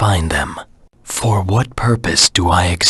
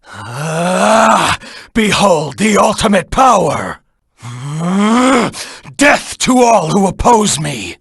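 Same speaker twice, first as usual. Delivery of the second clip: triumphant boast; 11 semitones higher, slower than usual. Acted. Hedgehog hero boasting ultimate power at his enemies, high gloating shout. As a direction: proclaim it as if unstoppable.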